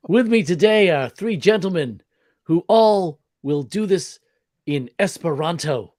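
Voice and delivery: lightly voiced Adam West; Adam West impression. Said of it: "an Adam West impersonation".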